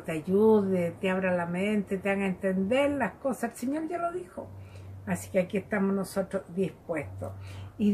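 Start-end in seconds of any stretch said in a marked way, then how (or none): none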